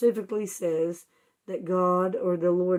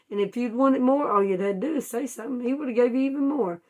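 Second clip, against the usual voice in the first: rising to a loud, high reproach; preacher voicing the prophet Nathan's rebuke; stern rebuke; 3 semitones higher, 3 dB louder than usual. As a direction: scold him for his ingratitude, building.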